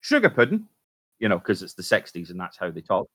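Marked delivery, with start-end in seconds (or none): 0.0-0.7 high, squeaky put-on wife voice; mock 60s wife. Wife spotting a light in the sky, high squeaky voice. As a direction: coo it like a sixties housewife. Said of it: "and she goes".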